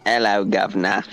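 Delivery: lightly hammed British greeting; stereotypical British accent. Shown as a demonstration. Streamer apologetically shows off a very stereotypical accent, mock British. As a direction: do a stock British "guv'nor" accent. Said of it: "I'm gonna put on a very".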